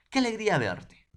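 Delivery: high, loud delighted greeting; joyful exclamation. Shown as a demonstration. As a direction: burst out happily at seeing a friend. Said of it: "Miren, ¿ah?".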